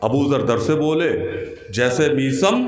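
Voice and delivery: even, measured Urdu verse recitation; शेर-पाठ. Acted. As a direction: recite the couplet evenly, as an opening reading. शेर फिर से. (सधे स्वर में शेर पढ़ना)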